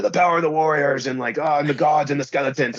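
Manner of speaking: lightly imitated wrestling mystic; half-hearted parody of a mystical wrestling rant; Ultimate Warrior promo. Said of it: "Ultimate Warrior promos are still amazing".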